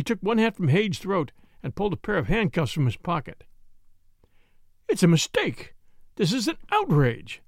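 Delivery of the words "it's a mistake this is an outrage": gasped protest. Acted. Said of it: "gasped the murderer".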